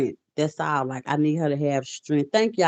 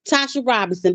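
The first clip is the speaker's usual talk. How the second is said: surprised question; 9 semitones higher than usual. Retold or imitated. Mother's surprised question retold.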